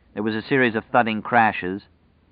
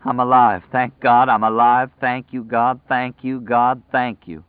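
raised, overcome voice, loud then fading; tearful relief; 4 semitones higher, 5 dB louder than usual. A narrator's reading. Escaped man thanks God he lived, crying with relief. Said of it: "He began to cry".

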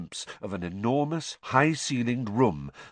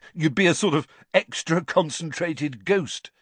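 chortling; 6 semitones higher than usual. Acted.

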